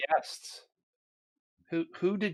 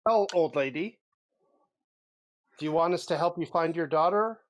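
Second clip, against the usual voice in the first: in character; 4 semitones higher, 6 dB louder than usual. Acted. Player character addresses NPC.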